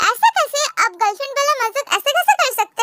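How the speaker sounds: a high, startled "how can that be"; shocked protest. Acted. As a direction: squeak it out in disbelief. Tae shocked by joke. (हैरानी से ऊँची आवाज़ में)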